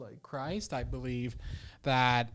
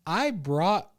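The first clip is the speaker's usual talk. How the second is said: louder mock-outraged father; indignant dad; 3 semitones higher, 5 dB louder than usual. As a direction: start listing what you did for her. Acts father's indignant tirade at daughter.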